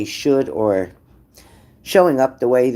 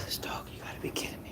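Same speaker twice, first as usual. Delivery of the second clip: exasperated whisper to herself; half-voiced sigh of disbelief; 21 dB quieter, faster than usual. Real, not acted. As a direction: mutter under breath at the dog. Exasperated aside about the dog.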